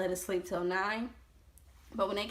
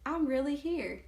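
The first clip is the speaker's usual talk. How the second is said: disbelief; 6 semitones higher than usual. Retold or imitated. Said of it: "in my head".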